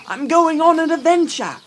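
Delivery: very high, full-volume shout; excited yell. Retold or imitated. Guide imitating Bilbo running off with the contract, yelling. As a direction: holler it out, pitch soaring. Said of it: "And he yells".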